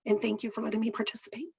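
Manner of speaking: strained, fading hoarse voice; losing voice. Real, not acted. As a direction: speak through a worn-out voice. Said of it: "Losing my voice".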